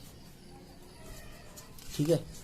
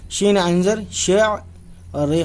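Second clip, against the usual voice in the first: letters named one by one, very slowly; slow classroom dictation; very slow spelling; 4 semitones higher, 4 dB louder, much slower than usual. Shown as a demonstration. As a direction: spell it out deliberately for beginners. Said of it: "teacher spells out letters".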